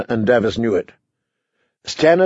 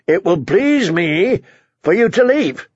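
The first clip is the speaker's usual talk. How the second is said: raised, deliberate royal order; higher-pitched, insistent command; commanding dismissal; 7 semitones higher than usual. Acted. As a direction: dismiss him with firm authority. King curtly dismisses the knight.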